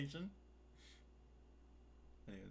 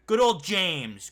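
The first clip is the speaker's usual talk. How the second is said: mock fond emphasis; 5 semitones higher, 9 dB louder, slower than usual. Real, not acted.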